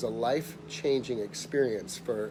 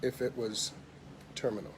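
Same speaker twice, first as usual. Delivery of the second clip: softer, halting delivery with a pause; very quiet; 7 dB quieter than usual. Retold or imitated. Insurance man hinting the worst to a client, quiet and halting. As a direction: let the grave word drop quietly. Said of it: "he was very quiet".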